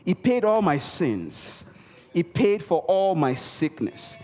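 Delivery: ordinary talk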